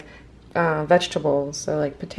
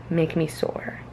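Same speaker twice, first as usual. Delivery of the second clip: whisper; 3 semitones lower, 6 dB quieter, slower than usual. Real, not acted. Playful aside about sore workouts.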